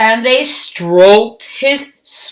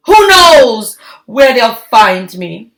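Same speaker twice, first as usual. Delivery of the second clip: calling out; 3 semitones higher, 7 dB louder than usual. Acted. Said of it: "she called".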